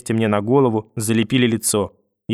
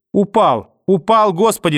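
high panicked cry; horrified shout, higher and louder; distant cries; 8 semitones higher, 4 dB louder, slower than usual. Acted. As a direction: cry out in horror. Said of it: "слышал я далёкие крики".

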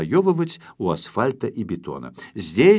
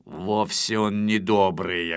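snapping; 3 semitones lower, slower than usual. Acted. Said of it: "огрызнулся Шпиндель".

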